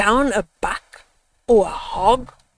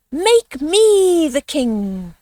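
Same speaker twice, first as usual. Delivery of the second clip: slow, louder demand; loud scream; 5 semitones higher, 4 dB louder, much slower than usual. Acted. Eagle demanding the crown from the animals, slow and loud. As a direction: proclaim it slowly to the whole waterhole. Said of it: "then loudly screamed".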